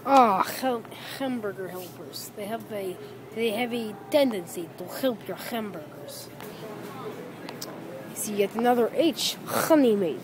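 throaty H on "hamburger" and "honey"; exaggerated H's. Vlogger reads products aloud, "hamburger" with exaggerated H. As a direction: hit the H in "hamburger" and "honey" as a rough Russian kh. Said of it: "I like saying H's".

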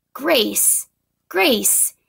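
repeated happy calls; excited shout. A narrator's reading. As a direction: cheer the name out. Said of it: "shouted Ralph".

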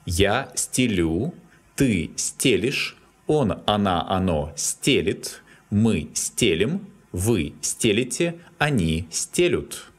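стелю stressed on the ending, стелишь and the rest on the stem; Я стелю with final stress, then сте stressed in стелишь, стелит, стелим, стелите, стелют; variable stress. Shown as a demonstration. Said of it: "has variable stress".

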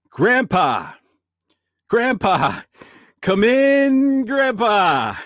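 loud call into the beyond. Acted. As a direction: call out to the spirit world. Calling out to spirit.

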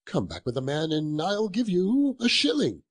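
lively, swooping urging; eager insistence. Acted. Scrooge sends the boy for the turkey, eager and insistent. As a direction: press the offer with mounting eagerness.

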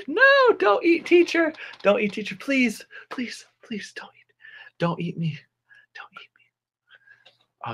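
high pleading fading to a whisper; mock terror. Teacher begging pupils not to eat her, hammed-up fear. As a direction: play the helpless victim, squealed then whispered.

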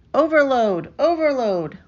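urgent alarm call. A narrator's reading. Computer alarm during landing.

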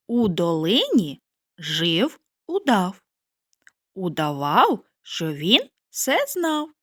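tongue twister said slowly, each sound clear; slow and careful. Shown as a demonstration. Teacher models the tongue twister slowly for children. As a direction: spell out every sound of "У долині жив удав", slowly. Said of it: "Повторюйте за мною".

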